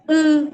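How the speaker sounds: "u" said clearly as a Guaraní word. Shown as a demonstration. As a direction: give "u" its Guaraní vowel. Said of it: "que le llamamos". ("u" pronunciado en guaraní)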